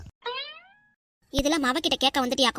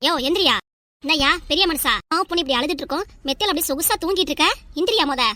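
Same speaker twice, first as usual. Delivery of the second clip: raised-voice nagging to wake a sleeper; scolding yell; 2 semitones higher than usual. Acted. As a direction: yell at him to get up, exasperated. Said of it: "காதுல வந்து இப்படி கத்திட்டு". (தூங்குறவரை எழுப்ப கத்தித் திட்டுதல்)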